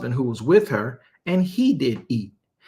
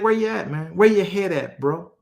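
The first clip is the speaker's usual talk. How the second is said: higher, buddy-to-buddy slang; street-talk God; 4 semitones higher than usual. Acted. God chides Adam like a friend, higher street slang. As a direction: rib him like a bro. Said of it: "He's like".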